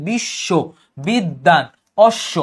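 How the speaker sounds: বিশ্ব, বিদ্যান, অশ্ব each with the consonant before ব held twice; doubled consonant. Shown as a demonstration. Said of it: "দুইবার উচ্চারণ করছো".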